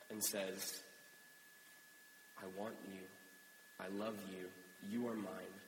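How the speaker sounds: measured, earnest spoken prayer. Real, not acted. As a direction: lead a congregation in heartfelt prayer. Leads the congregation in prayer.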